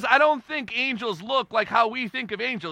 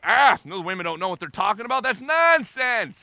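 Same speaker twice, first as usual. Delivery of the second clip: mocking dismissive men; 6 dB louder than usual. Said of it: "Typical men, right? Like".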